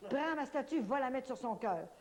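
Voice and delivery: urgent retelling of the command; insistent repeat. Retold or imitated. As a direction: press the order, rising high on "statue". Repeating the saint's order insistently.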